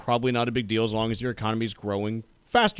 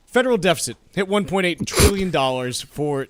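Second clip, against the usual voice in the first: bad acting; 4 semitones higher, 3 dB louder than usual. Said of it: "doing it that way".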